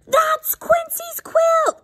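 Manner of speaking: very high, loud, drawn-out squawk; quacking duck. Acted. Noisy duck spots the dog with the quilt, loud quacking cry. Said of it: "quacks Dottie".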